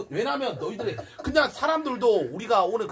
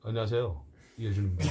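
much lower, deep put-on voice; extremely deep bass voice; 8 semitones lower than usual. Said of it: "목소리 깔고 한번 연기 한번 해봐".

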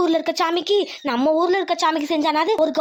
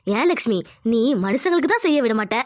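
conscience voice; 6 semitones lower than usual. Acted. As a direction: speak as her inner conscience. Conscience character speaks.

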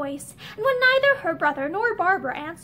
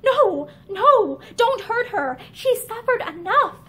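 urgent plea; 5 semitones higher, 4 dB louder, slower than usual. Acted. Barbara shields Linda again.

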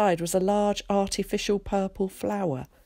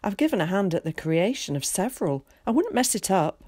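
a lightly voiced chatty, confident boy; eager boy Zack; 2 semitones higher than usual. Zack introducing himself to Willie, lightly voiced and breezy. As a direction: play a breezy, talkative schoolboy.

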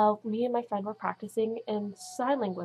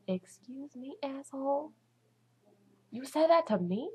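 mock indignant retort; 6 semitones higher than usual. Acts out an unsaid indignant retort.

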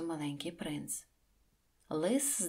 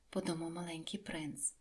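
whisper; 8 dB quieter than usual. A narrator's reading. Narrator whispers tag.

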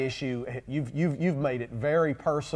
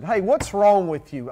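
mock attack; 4 dB louder than usual. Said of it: "Don't attack the person".

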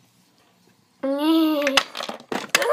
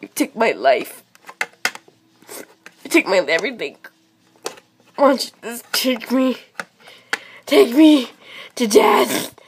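melodramatic lament; 4 dB louder than usual. Acted. Pet wails at the vet over the cone, hammed up. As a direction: mourn the cone like a tragic hero.

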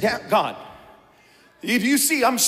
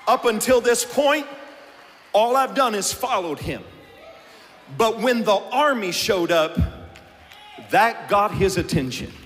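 preaching shout. Real, not acted. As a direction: shout the revelation out.

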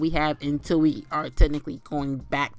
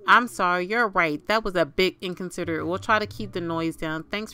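louder, quick sheepish apology; apologetic neighbor; 4 dB louder than usual. Pretend. Neighbor apologizing to the Sim, louder and sheepish. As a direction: play the caught neighbor saying sorry.

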